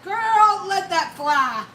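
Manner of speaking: high, loud Southern holler stretched out; Southern friend. Retold or imitated. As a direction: whoop it like a Southern friend egging you on. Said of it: "Kathy Joe's like".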